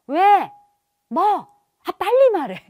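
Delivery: loud, high, irritated retort; hammed-up annoyed snapping; impatient parent. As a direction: act the busy parent rushing a child. Acts impatient busy parent snapping.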